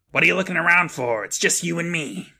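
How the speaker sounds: a hint of a wisecracking character; brash rabbit character. Acted rabbit quote, challenging the boy.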